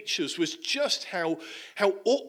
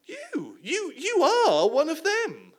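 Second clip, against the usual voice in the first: much higher, jeering voice with a laugh; mocking accusation; 12 semitones higher, 5 dB louder, slower than usual. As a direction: point him out and laugh at him. Bystander accuses Peter.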